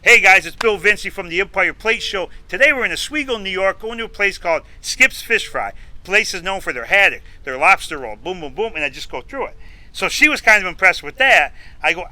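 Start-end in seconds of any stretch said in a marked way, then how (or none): 0.0-8.8 upbeat on-camera host opener, pitched up; show-host intro. Shown as a demonstration. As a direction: launch into an improvised food show intro. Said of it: "I could just, I, I'm thinking".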